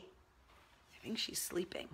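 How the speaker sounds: soft whispered aside, slow. Real, not acted. Owner whispering to viewers that the dog sleeps, hushed. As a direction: hush so the sleeping dog stays asleep.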